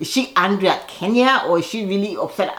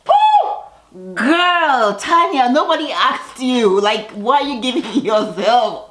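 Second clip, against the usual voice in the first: real excited shriek; 6 semitones higher, slower than usual. Real, not acted. Vlogger reacting to Tanya's confession, excited shriek. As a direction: hoot in disbelief.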